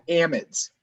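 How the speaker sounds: "amides" as AM-idz, first syllable stressed; preferred pronunciation. Shown as a demonstration. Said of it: "what is the correct".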